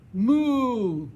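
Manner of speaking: a big loud cow moo; hearty mock cow moo. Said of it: "dijo la vaca".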